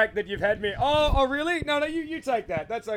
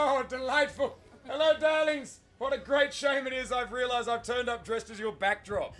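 put-on old cinema lady. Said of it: "you are sounding like an old, aged lady of the cinema".

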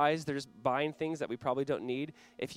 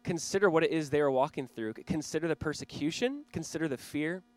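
earnest prayer. Real, not acted. Pastor praying before the sermon, earnest prayer voice. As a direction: pray it sincerely over the room.

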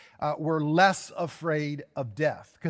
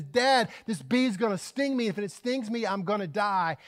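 mildly acted panic, a little higher; panicking daughter; 3 semitones higher than usual. Daughter warns dad about the bee, mildly panicked. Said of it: "She's panicking".

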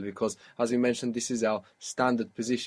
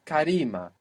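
Karima lifted on RI, short final "a"; stress on second syllable; 4 semitones higher than usual. Shown as a demonstration. Teacher showing the accent stayed, high stress on RI in Karima. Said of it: "it didn't move".

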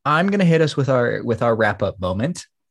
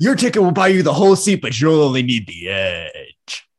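wrestling promo; 3 semitones higher than usual. Shown as a demonstration. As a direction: sell it like a wrestling commercial. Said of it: "like a W W E commercial".

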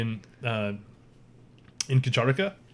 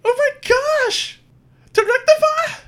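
bellowing; 8 dB louder than usual. Acted. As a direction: bellow it with delight across the hall. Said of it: "She kinda, like, bellows out".

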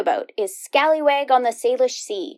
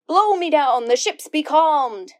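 pirate voice; 3 semitones higher, slower than usual. Shown as a demonstration. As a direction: ham it up like an old sea dog. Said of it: "you'll learn things like".

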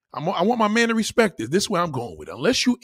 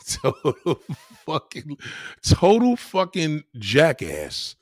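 slow, drawn-out jeer broken by laughter; laughing insult; 3 semitones lower, much slower than usual. Real, not acted. Streamer mocks the caller, laughing. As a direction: laugh through the words, then drag them out.

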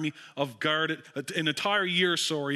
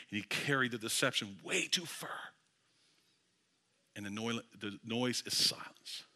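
much softer and lower, almost a murmur; hushed; 7 semitones lower, 8 dB quieter than usual. Real, not acted. Preacher to the congregation after the confrontation, hushed and low. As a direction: let the room fall still.

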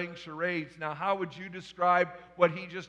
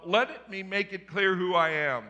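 a mildly booming angel, somewhat louder; 3 semitones higher, 7 dB louder than usual. Retold or imitated. Gabriel makes clear who he is to Zechariah, mildly booming. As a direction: lay down the law as the angel. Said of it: "I think the voice was booming".

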